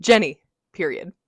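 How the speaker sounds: emphatic name, punctuation read aloud; dramatic text reading. Shown as a demonstration. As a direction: read it like an all-caps text. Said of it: "Let's do a dramatic reading".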